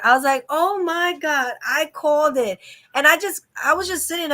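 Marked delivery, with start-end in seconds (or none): 0.5-2.6 higher, drawn-out exclamation; mock-stunned, pitch raised; amazed reaction. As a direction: relive the amazed moment, voice lifted. Retells reacting to correct prediction.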